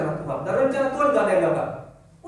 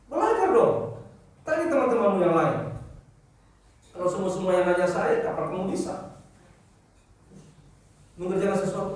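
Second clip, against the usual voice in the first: scolding staff. Retold or imitated. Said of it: "saya marahin".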